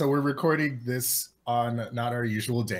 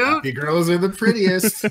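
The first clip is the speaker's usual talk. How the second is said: cheery; 6 semitones higher, 7 dB louder than usual. Retold or imitated. Reading mug slogan.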